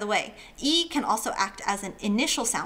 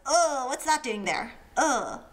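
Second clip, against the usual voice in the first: disgusted ugh; 3 semitones higher, slower than usual. Pretend. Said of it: "sees a dead rat and goes".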